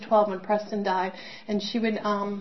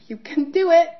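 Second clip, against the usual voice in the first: higher, louder call of encouragement; encouraging brother; 8 semitones higher, 9 dB louder than usual. Retold or imitated. Late brother Preston cheering his sister on, higher and louder. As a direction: cheer her on from above. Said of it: "Preston looking down at me going".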